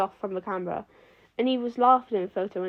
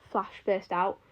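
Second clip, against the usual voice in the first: usual speaking voice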